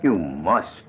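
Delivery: slow, high, taunting sympathy; mock sympathy. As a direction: soothe him with cruel irony. Killer mocks the trembling victim.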